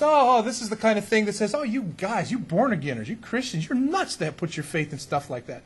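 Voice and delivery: mock the sneering sceptic, ending in a laugh; mocking scoffer. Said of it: "science scoffs at and says".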